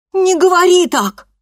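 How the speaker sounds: high, loud cry of protest; a girl shouting back at her grandmother; shouted outburst. Acted. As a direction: yell it out to stop her. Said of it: "выкрикнула Лореда".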